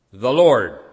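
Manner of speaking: a loud, ringing proclamation of the name; proclaimed loudly. Acted. Preacher proclaiming God's name to the congregation, loud. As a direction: call it out like a herald.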